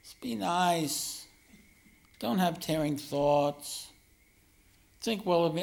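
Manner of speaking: slow, drawn-out coaxing; sweet pleading. Shown as a demonstration. Self-confessed jerk begging his own mind to be nice, sweetly pleading. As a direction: plead sweetly, stretching the words out. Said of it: "but speak sweetly and say".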